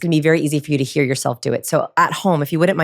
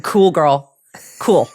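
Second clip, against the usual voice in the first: put-on breezy cool girl; 8 semitones higher, much slower than usual. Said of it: "if for you, that is".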